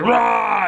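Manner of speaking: short, high mock roar; quick imitated scare cry; scary roar. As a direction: roar it briefly to startle. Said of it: "tries to scare whoever walks up".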